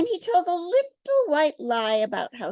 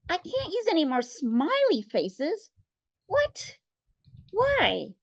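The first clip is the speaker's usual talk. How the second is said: mock shock; 5 semitones higher, slower than usual. Miss Johnson shocked.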